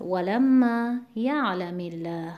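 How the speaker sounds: ولما یعلم الله slowly, with "ya'" of یعلم stressed. Shown as a demonstration. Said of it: "یعلمه کسر عارضی هست".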